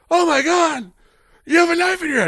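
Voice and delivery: high-pitched, hammed-up panic; mock freak-out. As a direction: squeal it in exaggerated alarm. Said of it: "they're freaking out".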